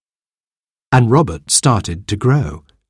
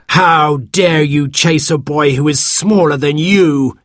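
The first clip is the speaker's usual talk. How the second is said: slow, louder boom from a giant; 6 semitones higher, 3 dB louder, slower than usual. A narrator's reading. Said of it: "he boomed".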